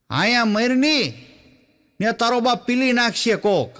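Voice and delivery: put-on a rustic mother snapping at her kid, slowed on the first words; rough Saurashtra mother. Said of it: "તો સૌરાષ્ટ્રમાં એમ કે". (સૌરાષ્ટ્રની માતા બાળકને ગામઠી લહેકામાં ધમકાવે)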